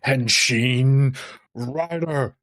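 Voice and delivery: slow mock hero call; transformation call. Lightly voiced cosplay hero, slow call. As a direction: intone it like a henshin pose. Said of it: "I could pull off a Tojima cosplay".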